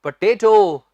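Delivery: पोटैटो said "puh-tay-to"; weak first syllable in पोटैटो; correct pronunciation. Shown as a demonstration. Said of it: "सही उच्चारण होता है".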